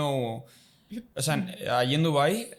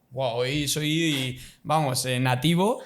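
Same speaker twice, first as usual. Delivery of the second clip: proud boast; 3 dB louder, much slower than usual. Retold or imitated. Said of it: "me despierto y digo".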